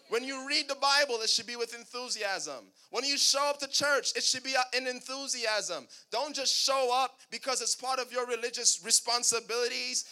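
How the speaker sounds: emphatic pulpit delivery; preaching. Real, not acted. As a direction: exhort the congregation with punchy emphasis. Preacher exhorts the congregation.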